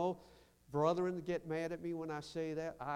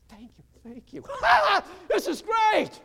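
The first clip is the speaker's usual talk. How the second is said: much higher, loud joyful cry; laughing shout of delight; ecstatic shout; 16 dB louder than usual. Real, not acted. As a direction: burst out with joy. Rejoicing preaching shout.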